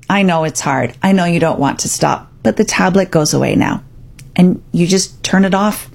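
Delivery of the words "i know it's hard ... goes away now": calm. Shown as a demonstration. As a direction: calmly state the limit, kind but firm. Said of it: "you could calmly say".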